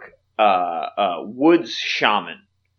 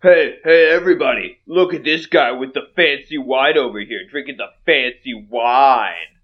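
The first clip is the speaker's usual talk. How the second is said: half-orc calling to the room, lightly raised; mild mock yell; 4 dB louder than usual. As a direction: call out a taunt without fully shouting. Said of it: "Yeah, he yells out".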